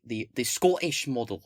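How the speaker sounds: a light, quick put-on Scottish accent. Explaining a party's policy to viewers in a brief jokey Scottish accent. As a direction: toss off the phrase in a mock Scottish accent. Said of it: "for the accent I just put on".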